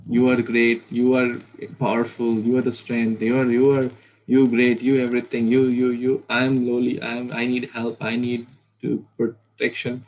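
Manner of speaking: loud, fervent praise of a great Lord; loud devotee praising, then asking for help; worshipful praise. Acted. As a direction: lift your voice in awe, then humble yourself.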